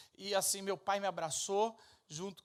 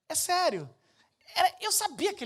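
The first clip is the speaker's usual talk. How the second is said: higher, louder, laughing through it; 12 semitones higher, 12 dB louder than usual. Real, not acted. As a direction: crack up as you say it. Laughing at himself.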